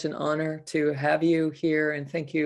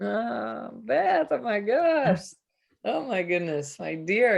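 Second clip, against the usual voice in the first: tearful, overcome, pitched up and slow; 6 semitones higher than usual. Responding after being warmly thanked and praised: moved to tears. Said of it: "you're making me cry".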